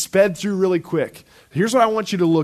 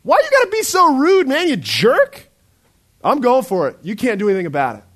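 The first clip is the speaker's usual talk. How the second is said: angry guy; 6 semitones higher, 4 dB louder than usual. Retold or imitated. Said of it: "a guy who goes".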